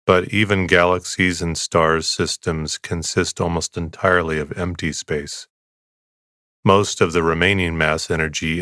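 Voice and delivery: calm, even bedtime reading; unhurried, steady sleep-podcast voice; soothing sleep narration. Real, not acted. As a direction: read it soothingly, to bore someone to sleep. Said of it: "with my soothing voice".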